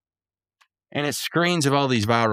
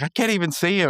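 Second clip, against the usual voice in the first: high Rigby quote; 8 semitones higher, faster than usual. Retold or imitated. Voicing Rigby.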